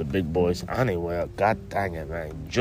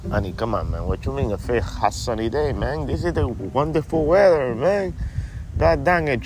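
a slightly higher, easygoing stoner-buddy voice; laid-back stoner buddy; 3 semitones higher than usual. Acted. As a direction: play the mellow stoner pal who ends every line with man. Buddy character talks to host.

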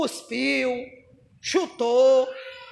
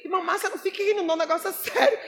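laughing rebuke; 3 semitones higher, 3 dB quieter, faster than usual. Retold or imitated. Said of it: "eu tive que rir".

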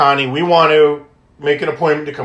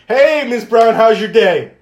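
much higher, beaming hello; best-friend greeting; 6 semitones higher than usual. Retold or imitated. Calling the Wish mom like her best friend, high and eager. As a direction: greet her like an old pal. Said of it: "talking to her like I'm her best friend".

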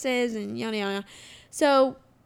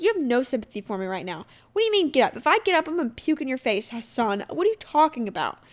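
mock outrage at being told to just get up; exasperated retort; 2 semitones higher, faster than usual. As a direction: fire it back at him, fed up and incredulous. Ranting at Dylan about getting up.

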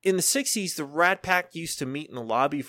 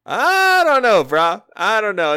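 mock dismay; 8 semitones higher, 10 dB louder, slower than usual. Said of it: "all I could sit there and think to myself was".

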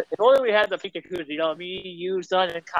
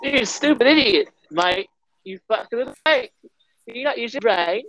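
higher put-on British scolding; 3 semitones higher than usual. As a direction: berate him as a hammed-up Brit. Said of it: "God damn British son of a bitches".

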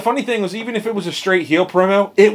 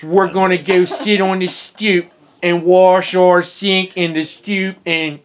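put-on Dundalk accent. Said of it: "That's your Dundalk accent?".

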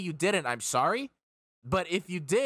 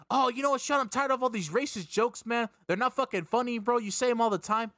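higher-pitched whiny complaint, mocking the buddy; mimicking an annoyed friend; 7 semitones higher than usual. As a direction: friend scolding Sean over racist jokes, mock whiny and higher. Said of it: "And he's like".

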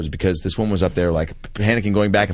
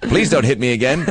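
pull string toy; 3 semitones higher than usual. Pretend. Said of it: "With all her catchphrases".

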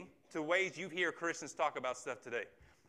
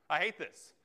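mock anger; 3 semitones higher, 4 dB louder than usual. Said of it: "Our natural response is".

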